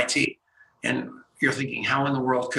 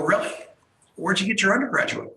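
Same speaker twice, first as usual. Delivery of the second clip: raised-pitch retold question; surprised questioning; 6 semitones higher than usual. Host retelling his questions to a stranger from MIT, surprised. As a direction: act out mild disbelief, pitch lifted.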